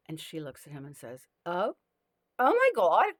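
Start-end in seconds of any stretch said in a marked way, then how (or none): 1.5-1.8 shocked gasp. Acted. Beachgoer woman shocked. 2.4-3.1 high, loud shriek of shock; a loud woman's voice, horrified; "oh my God" shrieked high and loud. Acted. Woman shocked at pale man.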